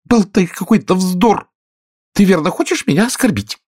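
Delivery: indignant squeaky reproach; huffy mouse scolds Alice; offended mouse. Acted.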